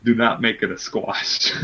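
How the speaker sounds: low, measured mock-serious radio voice; NPR voice. Begging Impact not to squash his wrestler, low NPR voice. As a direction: deliver it low and deadly serious. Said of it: "This is my N P R voice".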